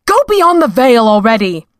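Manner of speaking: mild exasperated shout. Acted. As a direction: snap it out in exasperation. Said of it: "she shouted".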